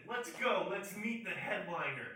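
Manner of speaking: bossy. Retold or imitated. Host orders wet comedian along.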